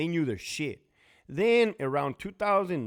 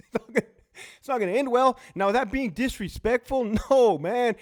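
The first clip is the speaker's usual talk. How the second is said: high, laughing through words; 9 semitones higher, 6 dB louder than usual. Real, not acted. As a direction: chuckle the words out.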